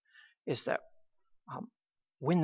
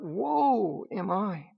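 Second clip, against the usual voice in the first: mild lament; 3 semitones higher, slower than usual. Retold or imitated. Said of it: "he cries out".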